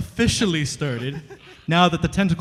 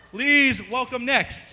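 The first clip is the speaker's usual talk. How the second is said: slow drawn-out ring announcer; wrestling announcer; 5 semitones higher, 4 dB louder, slower than usual. Pretend. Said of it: "I'm gonna sound like a wrestling announcer".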